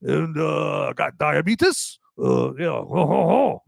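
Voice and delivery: hammed-up Cajun accent impression. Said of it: "Trying to do his Cajun French accent".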